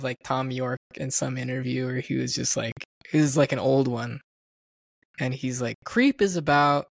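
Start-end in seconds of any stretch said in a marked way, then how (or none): 5.8-6.9 imitated musician's accent, drawn out slowly; the singer's accent. Retelling a singer's interview clip, imitated accent. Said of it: "in his accent".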